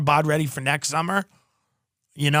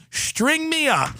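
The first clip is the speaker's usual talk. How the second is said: Epstein voice; 9 semitones higher, slower than usual. Retold or imitated. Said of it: "And Epstein goes".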